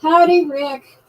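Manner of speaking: mock southern howdy, loud; a loud put-on Tennessee "Howdy"; hammed-up southern welcome; Tennessee greeting. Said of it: "That's a Tennessee way to say it".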